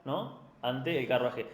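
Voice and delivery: usual speaking voice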